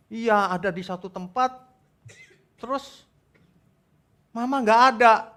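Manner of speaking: put-on high-pitched little-kid voice; acted upset child; child recounting nightmare. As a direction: whimper out the dream like a small child. Child recounts bad dream.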